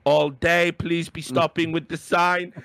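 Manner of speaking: slow, firm mock foreign accent; drawn out, insistent stop; slow accented producer. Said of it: "He's going".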